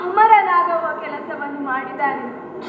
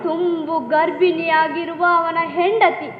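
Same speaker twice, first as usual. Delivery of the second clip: tearful; 3 semitones lower than usual. Acted. Grieving elder mourns the widow, tearful. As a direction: voice catching on a sob.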